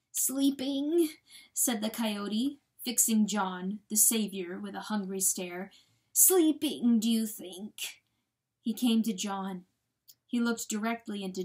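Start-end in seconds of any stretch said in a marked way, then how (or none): 0.1-1.2 higher, drawn-out question; hungry hope. A narrator's reading. Coyote grasping at the weasel's news, hungry hope. 6.2-8.0 grasp desperately at the idea; pleading hope. A narrator's reading. Coyote fixing John with hungry stare, pleading hope.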